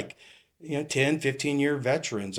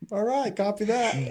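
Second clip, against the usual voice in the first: higher, laughing through the words; 11 semitones higher, 4 dB louder than usual. Retold or imitated. Rookie laughing off the senior officer's jab, laughing. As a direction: chuckle it out, taking the burn.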